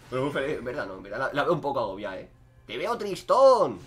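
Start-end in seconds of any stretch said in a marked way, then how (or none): 2.7-3.8 slow, drawn-out teasing pity; mock-sad sing-song tease. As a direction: stretch it out like you feel sorry for them. Teasing an enemy on screen.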